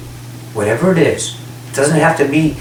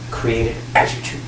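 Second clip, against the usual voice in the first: whispered; 7 semitones lower, 7 dB quieter than usual. Real, not acted. Soft spiritual channeling talk.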